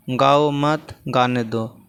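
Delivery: slow, separated गाओ, मत, गाने दो; pauses at the comma. Shown as a demonstration. Teacher giving a comma example, slow with pauses round मत. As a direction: spell out the breaks in गाओ मत गाने दो. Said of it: "अलग-अलग जगहों पर देखिए यहाँ लगा है".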